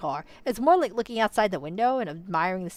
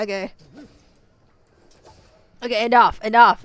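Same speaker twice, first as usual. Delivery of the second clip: louder, firm self-scolding; calming myself down; 8 dB louder than usual. Real, not acted. Viewer scolds herself to calm down, loud and firm. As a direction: tell yourself to stop, firmly. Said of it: "now I'm getting mad again".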